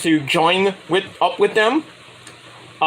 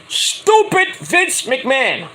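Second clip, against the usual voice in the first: mocking drawl; 6 semitones higher, much slower than usual. Grumbling about name change.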